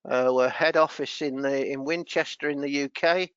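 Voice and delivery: cold, teeth chattering lightly. Real, not acted. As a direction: talk through chattering teeth. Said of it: "my teeth chattering".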